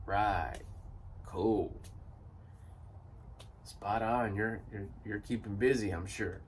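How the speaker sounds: low, dismissive acted replies; mock polite acknowledgement, low and trailing into quiet; unimpressed brush-off. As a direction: humor them with no real interest. Acted bored reply to stale promises.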